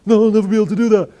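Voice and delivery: very high, loud, fast laughing voice; laughing at your own impossible goal; mock laughing dismissal. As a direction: laugh off the silly goal at speed. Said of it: "And then you go".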